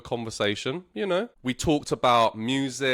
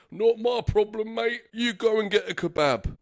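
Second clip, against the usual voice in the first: pitched-up mocking bouncer; 10 semitones higher than usual. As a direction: brush him off with a laugh.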